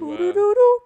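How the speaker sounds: high beeping machine voice; robot voice. Pretend. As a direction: play a chirpy robot. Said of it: "You just probably talk like a robot".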